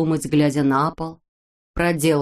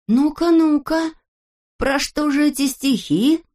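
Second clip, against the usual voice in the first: higher, slow and eager; curious; 8 semitones higher, 3 dB louder than usual. A narrator's reading. The friends press Neznaika, eager and curious. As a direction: lean in, intrigued. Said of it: "заинтересовались все".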